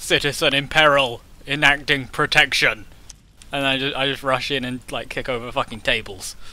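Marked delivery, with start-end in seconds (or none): 0.0-2.9 overly loud, booming voice. A player's character rushes in to protect a citizen in peril: overly loud voice. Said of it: "In an overly loud voice".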